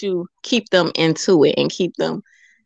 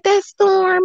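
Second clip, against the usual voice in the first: imitating her son; 12 semitones higher than usual. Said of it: "he'll be like".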